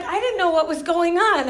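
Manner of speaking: high, loud, laughing through it; retelling a funny story with a laugh. Retold or imitated. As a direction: giggle out his excuse. Husband's excuse, laughing.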